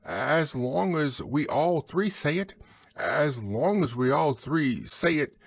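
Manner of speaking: high-pitched little animal voice; high voice, anxious for company; timid Piglet. Acted. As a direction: speak up as small, hesitant Piglet. Piglet's voice in story reading.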